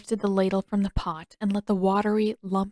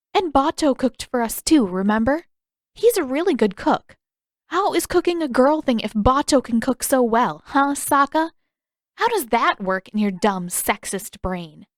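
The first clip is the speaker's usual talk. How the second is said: louder, higher scolding, slowing at the end; heated scolding; 5 semitones higher, 4 dB louder than usual. Acted. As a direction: tear into her brother. Katara scolds Sokka heatedly.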